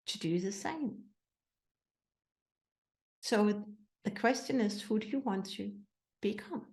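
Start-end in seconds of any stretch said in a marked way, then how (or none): none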